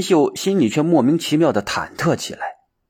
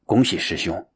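lower, restrained congratulation; devout respect; 4 semitones lower, 3 dB quieter than usual. A narrator's reading. Monk bowing to congratulate senior brother, devoutly respectful. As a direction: offer it humbly and sincerely. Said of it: "虔诚地向他鞠躬施礼说道".

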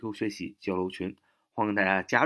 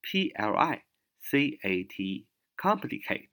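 slow spelling; 3 semitones higher, much slower than usual. Shown as a demonstration. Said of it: "C O M".

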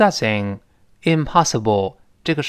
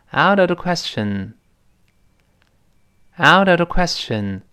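raised-pitch teacher model for repeating; reading aloud; 5 semitones higher than usual. Shown as a demonstration. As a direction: lead the class in reading it out. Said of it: "我们大声来读一遍吧".

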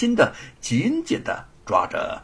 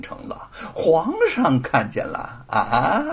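lightly voiced scornful lord; mock his piety with contempt; sneering bully; 5 semitones higher than usual. (不屑冷笑的恶霸)

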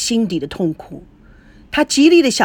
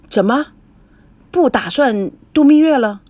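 grandpa's question jumps higher and louder; surprised; 3 semitones higher, 4 dB louder than usual. Acted. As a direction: caught off guard, asking in disbelief. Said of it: "赵保国惊讶地说". (惊讶的追问)

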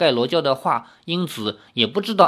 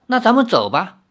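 happy, higher-pitched lilt; smiling delight; 6 semitones higher than usual. A narrator's reading. Girl gladly taking her companion's arm to leave, delighted. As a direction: say it through a smile. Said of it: "笑着说".

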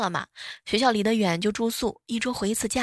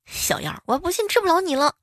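angry threat; 8 semitones higher than usual. Retold or imitated. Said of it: "我哥当时就有点生气了".

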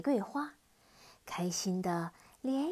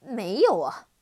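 puzzled mutter; 10 dB louder than usual. Acted. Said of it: "嘴里还念念着".

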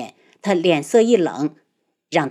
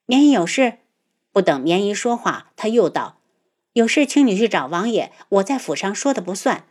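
cold. Acted. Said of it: "冷然地停下".

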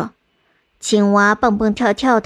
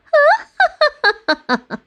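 exaggerated laugh. A narrator's reading. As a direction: throw the head back and cackle. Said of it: "吐司老爷夸张地笑着说".

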